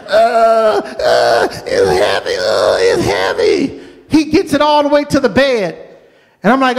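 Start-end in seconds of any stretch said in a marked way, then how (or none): 0.1-3.8 low, slow strained groan; grunting child. Retold or imitated. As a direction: drag the words out as if pulling something heavy. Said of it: "He's still grunting and straining".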